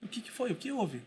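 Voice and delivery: softly solicitous husband; careful, concerned. Retold or imitated. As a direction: reenact a careful, tender check on an upset wife. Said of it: "eu fiquei cuidadoso".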